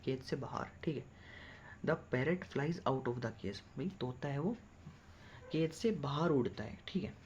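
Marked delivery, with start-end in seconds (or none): 1.9-3.6 slow dictation. Shown as a demonstration. Teacher reads English sentence slowly.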